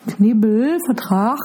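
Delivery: Knebelvertrag said very slowly; slow careful word. Shown as a demonstration. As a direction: Knebelvertrag spelled out slowly, syllable by syllable. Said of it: "hab ich das richtig ausgesprochen". (Knebelvertrag langsam und betont)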